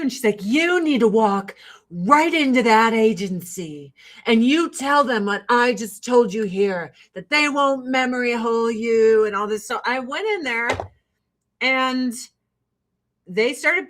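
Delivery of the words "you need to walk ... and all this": lightly voiced stern mentor; a hint of Janice's firm advice; impression of Janice. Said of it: "the impression is immaculate".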